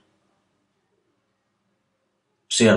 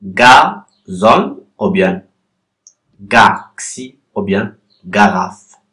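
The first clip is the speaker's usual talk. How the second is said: slow options; slower than usual. Shown as a demonstration. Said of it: "La, la deuxième syllabe".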